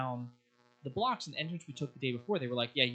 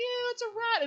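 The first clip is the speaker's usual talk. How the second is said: mock shriek, very high-pitched screaming; 4 dB louder than usual. Retelling women reacting to a rat in the street, imitating women screaming. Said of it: "the women screaming".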